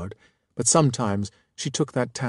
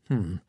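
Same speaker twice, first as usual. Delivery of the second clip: thoughtful hmm; 4 semitones lower, 5 dB quieter than usual. A narrator's reading. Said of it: "I said thoughtfully".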